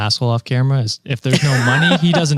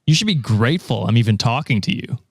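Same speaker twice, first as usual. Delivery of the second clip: nasal smug neckbeard. Acted. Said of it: "Give me your best neckbeard impression".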